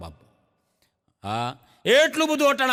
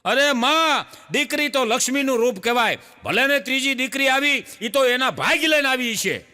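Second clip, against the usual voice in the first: raised, louder coaxing neighbour; consoling neighbour women; 5 semitones higher, 3 dB louder than usual. Acted. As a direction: comfort the granny loudly. (ઊંચા અવાજે આશ્વાસન)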